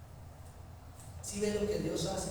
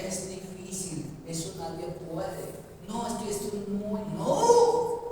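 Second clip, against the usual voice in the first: slow, grumbling excuses; whiny complainer making excuses; mocking whiny excuses; 3 semitones higher, slower than usual. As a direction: mimic a complaining believer. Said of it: "Cuáles son sus propios argumentos".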